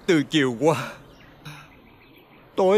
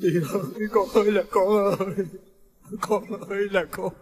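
wailing grief; 4 dB quieter than usual. Acted. Father mourning dead son.

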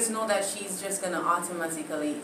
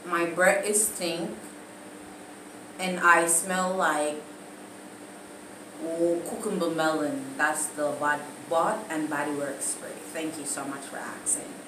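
mock sweet reply; 4 semitones lower, 5 dB quieter than usual.

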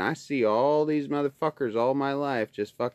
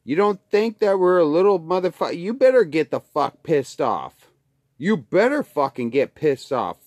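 louder, higher angry shout; angry yelling; 4 semitones higher, 5 dB louder than usual. Real, not acted. Yelling at fellow Alaskans to get pissed off, loud and angry. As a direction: yell it at them to rouse them.

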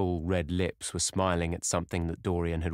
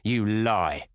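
crying out; 3 semitones higher, 5 dB louder than usual. A narrator's reading. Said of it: "cried James Vane".

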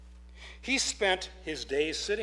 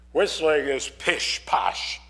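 slow, louder gruff dismissal; gruffly; 6 dB louder, much slower than usual. Acted. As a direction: drag it out like a grumpy old carver. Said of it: "said the woodcarver gruffly".

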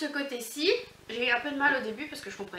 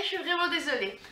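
laughing; 2 semitones higher than usual. Real, not acted. Apologizing for hiccups on camera.

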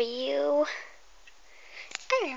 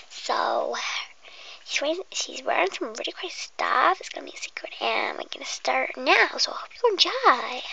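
whisper. Acted. Whispering to the viewer before the pretend hairdresser game. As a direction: breathe every word like an ASMR intro.

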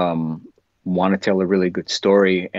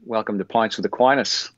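Australian accent. Shown as a demonstration. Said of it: "give us your best Australian accent".

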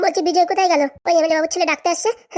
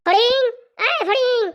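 calling out; 8 semitones higher, much slower than usual. Acted. Calling out to his helper.

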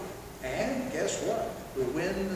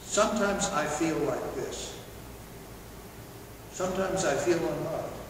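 calm honest statement. Shown as a demonstration. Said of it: "You know what you should say?".

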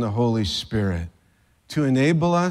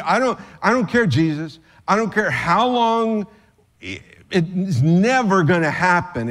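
emphatic refusal; 3 semitones higher than usual. Acted. Peter's emphatic refusal paraphrased.

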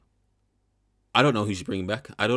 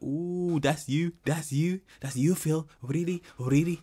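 high-pitched mock of a teammate; mocking quote; 9 semitones higher, slower than usual. YouTuber mimicking a candidate blaming her teammate, high mock voice. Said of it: "she was like".

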